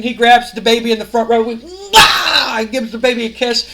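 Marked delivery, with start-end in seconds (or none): 1.6-2.6 loud high "mwah"; exaggerated smooch noise. Celebrating wrestler kisses a baby in front row, showy. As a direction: mimic a big showy kiss.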